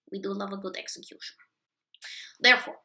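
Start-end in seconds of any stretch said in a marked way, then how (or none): 0.1-1.4 sinister. Acted. Sinister quiet aside.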